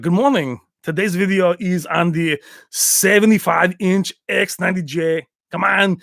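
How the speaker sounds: mock star presenter with stretched words; Van Damme impression. Pretending to open a store video, light Van Damme impression. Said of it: "be like".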